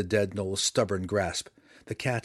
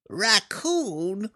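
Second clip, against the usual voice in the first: much higher, louder creature blurt; blurted gnoll voice; 11 semitones higher, 4 dB louder than usual. A narrator's reading. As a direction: blurt it out in sudden surprise. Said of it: "the gnoll blurted".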